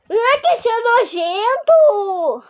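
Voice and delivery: slow, laughing disgust. Acted. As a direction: groan at the stink through laughter. Reacts to the smell.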